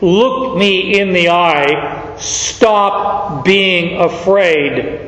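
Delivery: slow and gentle; tender reassurance. Acted. Jesus reassuring the frightened fisherman, tender and slow. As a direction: soothe him slowly.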